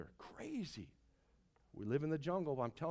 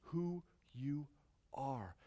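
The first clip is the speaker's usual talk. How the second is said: parent's send-off; 6 dB quieter, slower than usual. Retold or imitated. Parent sending a kid off into the world, soft tender reminder. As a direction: gently remind your kid as they leave home. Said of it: "Sending off your kid".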